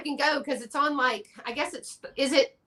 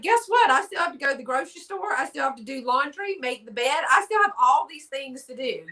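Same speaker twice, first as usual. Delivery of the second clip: mock protest; 3 semitones higher than usual. Acting out her reply to admirers.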